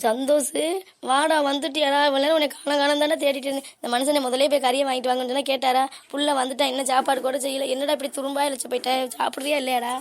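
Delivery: loud, emotional welcome; tearful joy. Acted. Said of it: "எதுக்குமா அழுகுறிய?".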